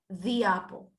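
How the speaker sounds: "the" said "thee" before apple. Shown as a demonstration. Teacher repeating "the" as "thee" for students. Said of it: "El sonido de la E va a ser como I".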